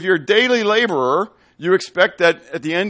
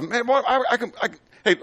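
laughing haggling; 8 semitones higher, faster than usual. Retold or imitated. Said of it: "friend bargaining, laughing".

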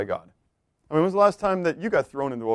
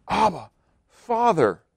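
higher, very slow, pleading cry to a father; heartfelt cry; 6 semitones higher, much slower than usual. Shown as a demonstration. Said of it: "that just cries out".

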